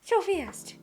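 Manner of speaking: laughing, teasing echo; laughing mock. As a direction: giggle through a playful mimic. Teasing partner's rushed drawing.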